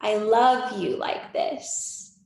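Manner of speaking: slow, tender declaration; loving reassurance. Acted. Adult self holding little self, slow and loving. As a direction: draw the words out lovingly in your natural pitch. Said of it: "adult you holding little you and, and being like".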